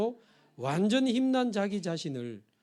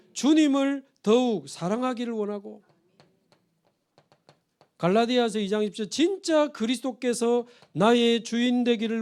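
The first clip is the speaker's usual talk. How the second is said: louder, higher impassioned preaching; fervent preaching; 5 semitones higher, 4 dB louder than usual. Acted. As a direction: pour it out like a revival prayer. (뜨겁게 외치는 설교)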